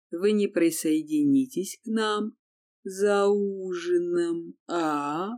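creature faking a friend's voice; unnatural mimicked voice. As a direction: squeeze the words out unnaturally. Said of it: "делала это ужасно неестественно".

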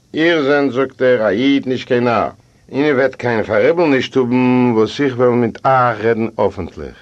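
lightly acted, emphatic speech; host holding forth. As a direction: raise the voice a little to make a declaration.

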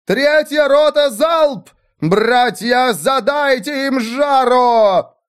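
high, slow commanding yell; shout imitating Erwin. A narrator's reading. The widow copying Erwin's fake orders, commanding shout. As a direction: bark orders in Erwin's style. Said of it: "кричала, подражая Эрвину".

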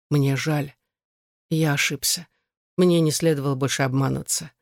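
plain reading voice

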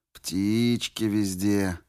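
put-on slow, creaky old man. A narrator's reading. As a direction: drawl it like an old tramp. Old tramp voiced in story.

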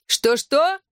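high shouted question, hand to ear; girl shouting back across the yard. A narrator's reading. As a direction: shout back as if you can't hear. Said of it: "крикнула Клэр".

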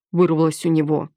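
usual speaking voice

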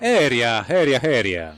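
fading echo repeating the word; echo effect. Pretend. Echoing the name in the jingle.

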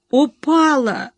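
slow, whiny, pitiful wail; wife whimpers to her husband that she fell; plaintive whimper. A narrator's reading. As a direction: whimper it to win sympathy. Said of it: "жалобно прокныкала она".

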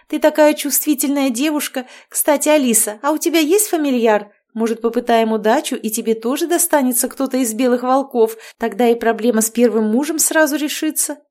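bubbly overbearing mother-in-law chattering; cheerful witch. Acted. Marianna chattering. (ведьма щебечет слегка выше обычного)

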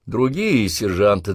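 ordinary delivery, nothing marked

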